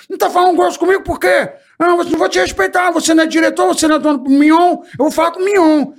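high, indignant shout at the boss; a furious little sidekick yelling back at the star; angry complaining. Retold or imitated. Sidekick shouting angrily at the show's hero. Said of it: "ele era reclamão pra caramba".

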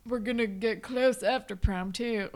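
imitating a boastful teenager; mock bragging. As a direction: brag in a put-on voice. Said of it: "Sav starts bragging about".

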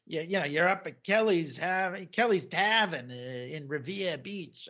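lightly imitated Boston accent. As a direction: give the place names a mock Boston sound. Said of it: "I love his Boston accent".

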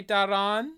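Darren said the French way, rising; French pronunciation. Shown as a demonstration. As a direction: put a French ending on Darren. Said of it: "how they say it on France".

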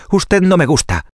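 high little piglet voice; a small pig, frightened but firm. Acted. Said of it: "dijo el cerdito rosado".

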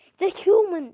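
mock alarm from a crowd; mild scream. Kids fleeing the gym, a restrained scream. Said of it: "they screamed".

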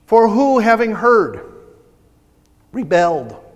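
measured, emphatic Bible reading; scripture reading. Real, not acted. Preacher reading Hebrews to the church, emphatic scripture reading. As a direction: read it out deliberately to the congregation.

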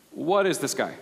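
retold skeptical question with a laugh; lightly mock wary disbelief. Youth minister sizing up spiky-haired student, skeptical. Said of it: "I'm skeptical".

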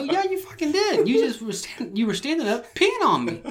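high, loud insistent comeback; retold heated accusation. Man contradicting friend's denial, retold heated accusation. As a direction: argue back, voice jumping up in indignation. Acting out argument over the peeing.

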